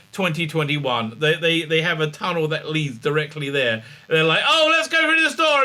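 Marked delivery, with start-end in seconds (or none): 4.5-5.6 high, bright, chirpy companion voice; mock cheerful companion. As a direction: play the eager companion going the wrong way. Companions choosing a door.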